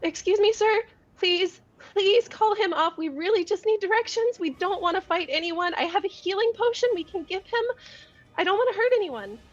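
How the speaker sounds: sincere, very earnest, high-voiced pleading. Player voicing her character pleading with a satyr, very earnest. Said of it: "she's like very earnest".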